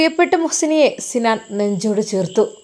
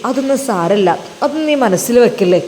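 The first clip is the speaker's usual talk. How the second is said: lower, calm husband's voice; husband Sinan comforts his guilty wife, lower and calm; reassuring husband; 3 semitones lower than usual. Acted. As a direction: soothe her, he trusts her fully.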